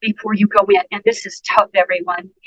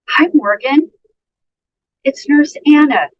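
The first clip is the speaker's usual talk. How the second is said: slowed down; 5 semitones higher, 4 dB louder than usual. Shown as a demonstration. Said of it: "did you see how I slowed it down".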